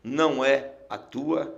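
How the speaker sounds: slow, measured command broken by pauses; a weighty order, word by word, dropping low at the end; voice of authority. Retold or imitated. God's voice turning him back at the portal, slow authority. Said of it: "uma voz de autoridade falou".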